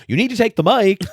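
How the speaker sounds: high, loud mock urgent plea; hammed-up high pushy voice; imitating her urging. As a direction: squeak it out like a frantic whisper from backstage. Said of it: "you can hear her be like".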